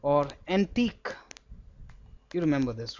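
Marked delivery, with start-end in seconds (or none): 0.5-1.1 "antique" ending "-teek", silent UE; demonstrated pronunciation. Shown as a demonstration. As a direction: say "antique" as "an-teek", rising at the end. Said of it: "Q U E is always pronounced as".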